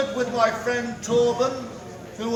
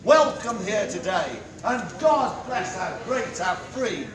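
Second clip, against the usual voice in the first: town crier. Acted. Town crier closing proclamation.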